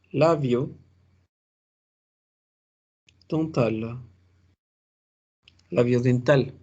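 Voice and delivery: labio dental spelled out slowly for the class; slow teaching demo. Shown as a demonstration. Teacher modelling labio dental, slow and careful. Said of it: "diferencia entonces entre la V".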